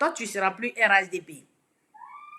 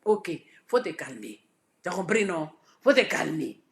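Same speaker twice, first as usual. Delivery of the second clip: calm advice; 5 semitones lower, 6 dB quieter than usual. Retold or imitated. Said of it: "Il a dit".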